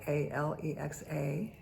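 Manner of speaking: A L E X A as separate letter names; each letter of A L E X A named; spelled letter by letter. Real, not acted. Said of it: "I don't wanna say her name".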